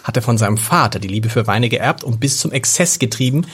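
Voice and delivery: steady book reading voice; reading aloud. A narrator's reading. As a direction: read the passage like an audiobook. Reads book passage aloud.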